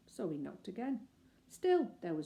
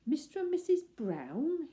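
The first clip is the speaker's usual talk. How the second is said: dazed; 9 semitones higher, 6 dB louder than usual. Acted. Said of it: "repeated in a dazed voice".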